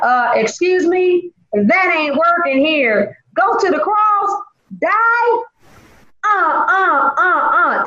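high, reluctant hemming voice; hammed-up reluctant protest; mock refusal. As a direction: play it as a scared no-thanks. Refusing to die on cross.

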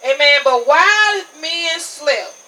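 ordinary talk

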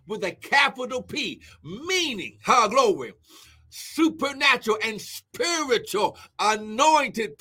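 emphatic scripture proclamation; punchy sermon cadence; fervent preaching. Real, not acted. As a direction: preach it, swelling on the key words. Preaches scripture at full force.

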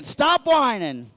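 loud, high, slow; call and response. Shown as a demonstration. Telling a neighbor to stop whining, loud and slow. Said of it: "Now respond back to him again".

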